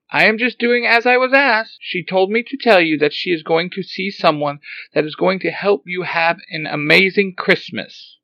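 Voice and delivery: high, loud robot voice; robot explaining. Acted. Alpha Five telling Zordon about Xenon's message, high robot voice. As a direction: rattle off the message like a dutiful robot.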